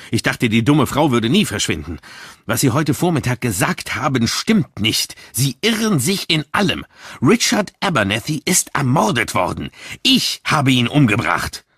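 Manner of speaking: a worked-up confession; agitated outburst. Acted. Agitated young man confesses.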